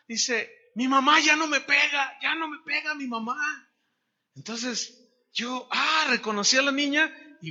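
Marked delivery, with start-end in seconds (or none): 0.7-3.4 put-on high, louder child's joyful news; happy little girl. Girl tells the preacher her mother stopped hitting, high and joyful. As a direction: burst out the good news like a girl.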